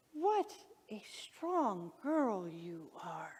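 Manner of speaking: very slow, hushed praise; awed whisper. Retold or imitated. Owner looking at new mother cat, awed whisper. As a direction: whisper it tenderly, word by word.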